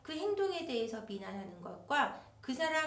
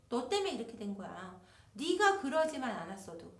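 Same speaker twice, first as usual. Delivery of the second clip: blaming accusation; 4 dB louder than usual. Retold or imitated. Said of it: "또 아내분한테".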